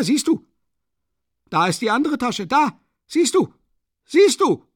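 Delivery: high, loud, frantic shouting; frantic triumph. A narrator's reading. Katerina shrieks at the crowd, showing the empty pockets. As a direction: shriek it in furious vindication.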